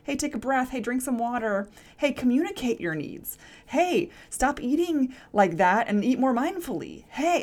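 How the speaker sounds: like a car dashboard nagging you; dashboard warning voice. Pretend. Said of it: "flashing red sign on your dashboard going".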